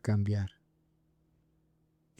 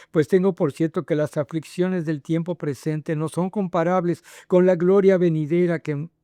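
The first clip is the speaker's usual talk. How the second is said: slightly raised, declaimed Bible reading; scripture reading; 5 semitones higher than usual. Acted. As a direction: read the verses out to the congregation. Reads scripture aloud. (lectura bíblica declamada)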